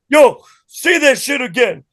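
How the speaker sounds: high, incredulous retold exclamations; imitated amazed outburst. Acts bandmate amazed at his accent.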